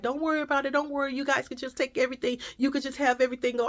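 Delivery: high, quick mock reassurance; apologetic store lady. Store lady offering free groceries, mock apologetic. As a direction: imitate her hurrying to smooth things over. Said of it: "The lady was so apologetical".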